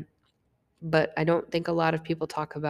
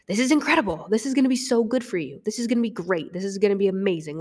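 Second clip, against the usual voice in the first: gushing, much higher and louder; excited; 4 semitones higher, 4 dB louder, faster than usual. Retold or imitated. Best friend Jordan thrilled on the phone, excited. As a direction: beam with joy for her. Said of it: "He was so excited".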